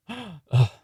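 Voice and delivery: high gasp and groan; gasp, then grunt loudly; exasperated gasp. Acted. Magician reacting to birthday mix-up, exasperated gasp.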